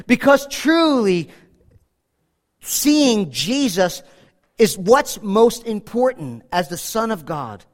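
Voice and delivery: slow, drawn-out preaching emphasis; measured, weighty pulpit delivery. Real, not acted. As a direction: lay each word down deliberately.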